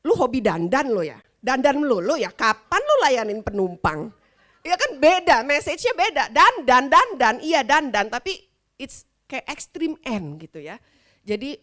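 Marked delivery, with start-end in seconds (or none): 0.0-4.1 louder, sneering jab at the stewardess; mocking rebuke. 6.3-8.1 "Dandan" hit hard and loud, falling each time; stress on dandan. Shown as a demonstration. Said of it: "stress on dandan".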